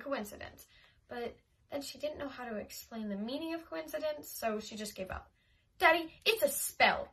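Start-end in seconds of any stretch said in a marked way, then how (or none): 5.8-7.1 high, loud urgent plea. A narrator's reading. Little girl telling her father urgently, loud and high. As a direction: insist to Daddy, worried.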